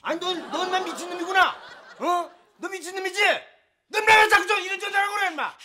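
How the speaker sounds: furious shouts into the phone; angry shout. Acted. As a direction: scare off the caller. Yelling at a prank caller.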